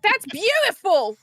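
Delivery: high, drawn-out British BEAUTIFUL; British-style beautiful. Retold or imitated. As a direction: gush it slowly in a put-on British accent. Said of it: "I say beautiful".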